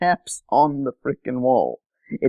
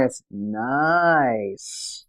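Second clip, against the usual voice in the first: "It's nice." slightly lower, with the "nice" drawn out and falling; corrected deadpan "nice"; 3 semitones lower than usual. Shown as a demonstration. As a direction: stretch "nice." slowly down to a dry finish. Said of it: "No, no, you got it wrong".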